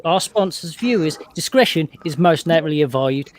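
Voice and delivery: put-on disclaimer read in a Cockney accent. English guest reads the show's disclaimer for the hosts, in Cockney. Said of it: "Cockney. So you gotta say it like this".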